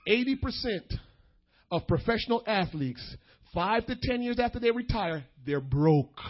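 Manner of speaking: deliberate, with weighty pauses between phrases; emphatic repeat. Real, not acted. Preacher making young people hear the statistic, emphatic and measured. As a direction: break the statistic into separate phrases.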